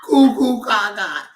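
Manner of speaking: sing-song goo goo gaga. Real, not acted. Baby talk to infant.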